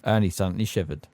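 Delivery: ordinary delivery, nothing marked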